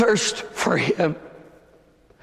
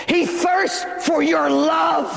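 ordinary talk, nothing marked

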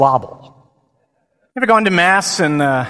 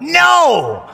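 high, loud shouted no; group yell; 12 semitones higher, 5 dB louder than usual. Retold or imitated. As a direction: yell it out like a whole chapel. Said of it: "we all yelled out".

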